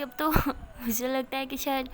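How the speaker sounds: slow, bitter half-laugh; bitter laughter. Retold or imitated. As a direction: laugh at her own bad luck. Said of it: "میرا ہنستی اور کہتی".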